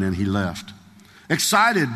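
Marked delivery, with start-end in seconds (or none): 1.3-1.9 scornful echo. A narrator's reading. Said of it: "Doctor Dowie wrote".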